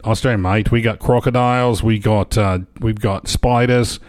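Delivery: mock Aussie accent, listing; Australian accent. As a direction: rattle off a list as an Australian. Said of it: "That's not an accent".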